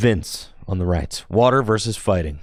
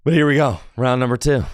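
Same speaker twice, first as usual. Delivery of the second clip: excited announcer; 5 semitones higher, 4 dB louder, faster than usual. Real, not acted. Announcing round after sprint.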